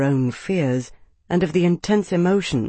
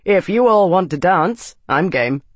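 louder, bluff invitation to fight; breezy challenge laced with menace; cheerful, violent relish; 3 semitones higher, 5 dB louder than usual. A narrator's reading. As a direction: start high and eager, cheerfully game. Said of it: "cheerful voice that was laced with a desire for violence".

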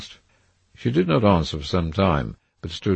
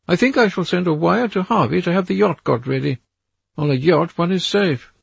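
put-on higher, louder young man's voice, burdened and restless; a weary young man longing to escape; troubled Dorian; 13 semitones higher, 5 dB louder than usual. A narrator's reading. Dorian confiding to Lord Henry his wish to flee, higher and louder.

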